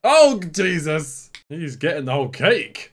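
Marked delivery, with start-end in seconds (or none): 0.0-1.3 shocked. Real, not acted. Shocked at a scene.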